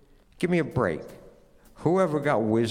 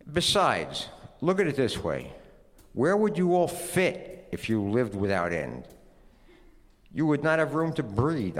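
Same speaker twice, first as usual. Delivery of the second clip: almost consoling; 6 semitones higher than usual. Acted. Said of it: "almost consolingly".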